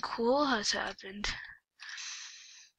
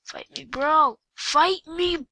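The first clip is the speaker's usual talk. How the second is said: from taunt up to a high yell; 5 semitones higher, 5 dB louder, much slower than usual. Acted. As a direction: build the taunt to a shout.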